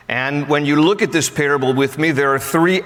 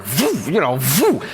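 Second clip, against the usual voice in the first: tossing sound; slower than usual. Retold or imitated. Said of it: "he's just like".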